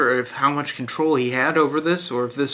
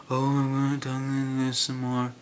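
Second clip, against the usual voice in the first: John Glover mock impression; 4 dB quieter than usual. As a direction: parody a sudden sunken, slurred voice. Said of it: "up and down in pitch".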